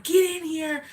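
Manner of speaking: a hint of a strict teacher calling her in; stern teacher. The teacher ordering her into the room, mock stern.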